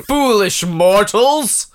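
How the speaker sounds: slow mock villain taunt; slow theatrical villain menace. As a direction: gloat slowly like a hammy villain.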